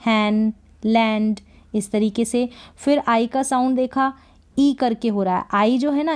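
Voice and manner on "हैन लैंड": "हैन, लैंड" slow, vowel drawn out; slow demo words. Shown as a demonstration. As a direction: spell out each word slowly. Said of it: "ई का sound जैसे पैन". (धीमे, खिंचे स्वर में उदाहरण)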